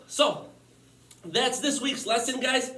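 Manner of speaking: winded after exercising; out of breath. Real, not acted. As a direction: talk while catching breath. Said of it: "Sorry I'm a little out of breath".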